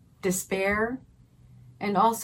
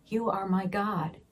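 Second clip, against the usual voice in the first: quiet prayer; 5 dB quieter than usual. Shown as a demonstration. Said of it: "think about it from a physical perspective".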